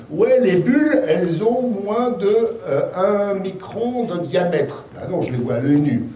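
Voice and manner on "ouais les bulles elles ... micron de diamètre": high, slow mock-pompous textbook quote; lightly hammed-up voice of the textbooks. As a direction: parody the know-it-all books, drawn out. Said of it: "les livres de science des aliments nous disent".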